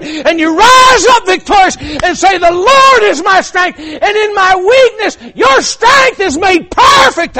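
high, driving revival-preacher cry; full-force preaching. Real, not acted.

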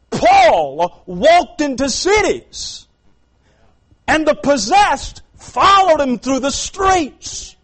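high, loud, slow preacher's cry, building to a shout; full-force preaching. Acted. Preacher stirring the congregation about God's power, full-force preaching. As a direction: thunder it out to the congregation like a revival preacher.

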